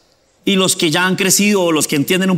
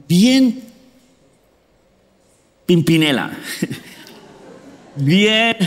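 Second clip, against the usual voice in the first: laughing; much slower than usual. Real, not acted. Laughs at his old preaching.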